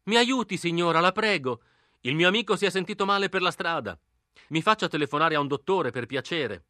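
high, pleading posh gentleman; refined voice. Acted. Through the letter slot to the old lady, refined plea. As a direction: play the polite gentleman asking for help. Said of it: "con una ciangotta di tipo raffinato".

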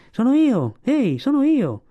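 acuto e forte, chiama per farsi riconoscere; un cucciolo di foca che grida dai frangenti; richiamo gridato. Acted. Kotick calls to the walruses. (grida acute per farsi sentire)

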